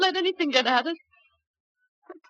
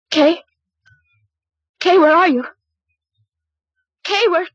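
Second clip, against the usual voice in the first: calling out in alarm; 10 dB louder than usual. Acted. Waking alone, calling out.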